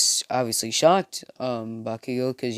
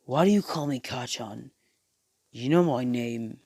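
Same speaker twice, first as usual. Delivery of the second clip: mildly annoyed bully voice; mad. Acted. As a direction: demand it with a touch of anger. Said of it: "is mad and says".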